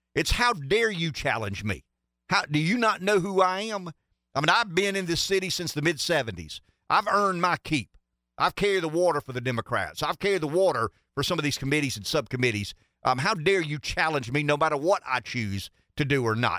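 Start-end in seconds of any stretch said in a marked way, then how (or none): none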